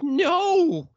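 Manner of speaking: high, loud burst of no; emphatic no. Retold or imitated. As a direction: shout down the idea. Rebutting friends' accusation.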